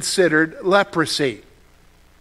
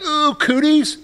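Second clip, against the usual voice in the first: put-on disgusted kid; 9 semitones higher, slower than usual. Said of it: "you ever heard of people like".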